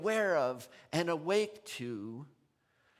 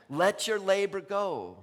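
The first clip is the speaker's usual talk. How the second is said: laughing exhortation; 4 semitones higher, 9 dB louder, slower than usual. Real, not acted.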